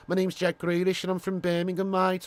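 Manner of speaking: lightly mimicked footballer in a Brummie accent; Birmingham accent. Streamer showing viewers how the footballer talks, Brummie accent. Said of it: "this is what he talks like".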